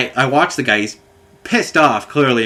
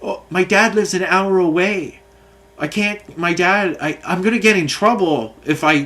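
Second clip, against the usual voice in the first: higher, lightly voiced upset boy near tears; mock tearful kid; 4 semitones higher than usual. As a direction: imitate a worried kid about to cry, higher. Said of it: "The kid started going to tears".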